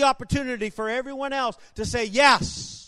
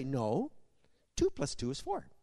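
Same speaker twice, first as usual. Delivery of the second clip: bold confidence; 7 semitones lower, 10 dB quieter than usual. Retold or imitated. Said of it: "with total boldness and confidence".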